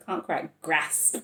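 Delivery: slow, drawn-out northern English vowels on Can't quite grasp; northern English accent. Shown as a demonstration. Tarot reader repeating her own slip in a northern English accent. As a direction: say it again the way they do up north, slowly. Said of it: "it's an up north accent".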